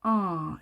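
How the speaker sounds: 어 sounded midway between 오 and 아; demonstrated English short-o sound on 어. Shown as a demonstration. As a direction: show the vowel 어, halfway from o to a. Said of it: "이렇게 오와 아의 중간 소리".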